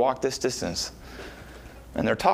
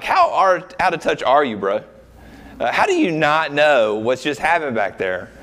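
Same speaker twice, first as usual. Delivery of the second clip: sarcastic. Retold or imitated. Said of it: "Don't you hear the sarcasm?".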